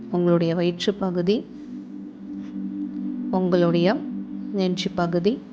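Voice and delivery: calm meditation guide, with long pauses between phrases; guided meditation. Acted. Guiding listeners to relax and observe their breath, calm meditation voice. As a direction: lead them gently through it, phrase by phrase, leaving room to breathe.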